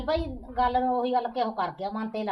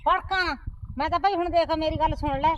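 raised, indignant retort; aunt bristling when told not to flare up; flaring up; 3 semitones higher than usual. Acted. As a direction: bristle back at her. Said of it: "ਤੂੰ ਇੰਨਾ ਨਾ ਭੜਕ".

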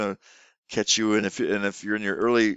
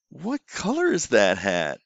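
slow leaning-in question; slower than usual. Shown as a demonstration. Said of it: "you wanna lean in a little bit".

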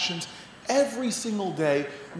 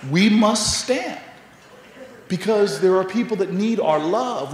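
rousing public-speech delivery with forceful openings; rally the crowd, driving each repeated call; impassioned oratory; 3 semitones lower, 4 dB louder than usual. Real, not acted. Speaker urging the audience to stand up, impassioned oratory.

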